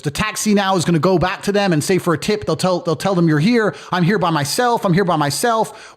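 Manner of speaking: a hint of fear, pleading she's alone; panicking receptionist. Receptionist alone at night fearing mafia, mild imitated panic. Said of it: "she started really having, like, a panic attack".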